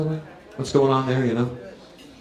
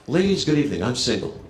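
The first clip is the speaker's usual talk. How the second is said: mock smooth pickup line; 4 semitones lower than usual. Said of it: "I wanna be positive".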